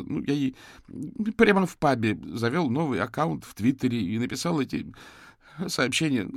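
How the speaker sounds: high, strained, pleading voice; distraught young man. Acted. Suspect confesses to the detectives, high and distraught.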